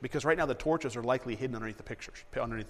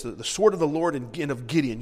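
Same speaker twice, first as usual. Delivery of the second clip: shouted battle cry; 4 dB louder than usual. Shown as a demonstration. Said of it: "Yell it real loud".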